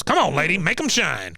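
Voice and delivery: lightly voiced bossy veteran; cranky old soldier giving a command; Cotton. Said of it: "he goes".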